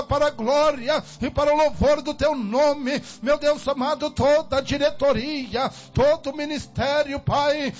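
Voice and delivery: impassioned Pentecostal intercession in short chanted phrases; fervent prayer. Real, not acted. Preacher pleading with God to deliver his people, fervent prayer. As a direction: pray with urgent force, stretching each phrase's last stressed word.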